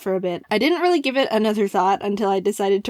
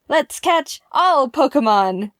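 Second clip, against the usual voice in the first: slow read slogan; 3 semitones higher, 4 dB louder, slower than usual. Retold or imitated. Reading his slogan example.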